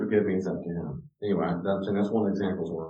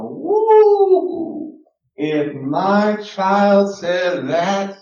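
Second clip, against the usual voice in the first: shocked exclamation; 11 semitones higher, 9 dB louder, much slower than usual. Retold or imitated. Shocked at children's talk.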